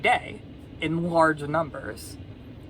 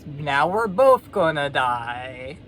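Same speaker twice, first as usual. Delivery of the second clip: dismayed frog; 2 semitones higher, slower than usual. Acted. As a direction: wail it lightly as a doomed cartoon frog. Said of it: "And the frog's like".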